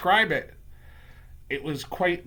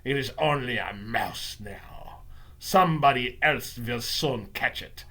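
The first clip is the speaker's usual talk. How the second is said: scornful witch, dropping from the shout; Grand High Witch; 3 semitones lower than usual. Acted. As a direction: brush it off in a villain witch's voice. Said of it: "the Grand High Witch was shouting".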